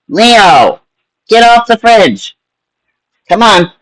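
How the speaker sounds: high, slow call to a pet; talking to a cat. Real, not acted. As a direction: order the cat off the fridge. Cat on the fridge.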